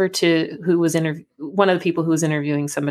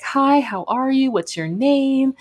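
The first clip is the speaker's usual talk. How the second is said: high, slow, cheery greeting; imitating a joyful airport officer, bright and slow; 8 semitones higher, slower than usual. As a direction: sing out a friendly hello like a smiling guard. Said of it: "Very joyful".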